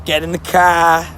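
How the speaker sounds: slow, rough New York accent; attempted New York accent. Shown as a demonstration. Streamer testing lines from their head, attempted New York accent. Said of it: "I can't pronounce them".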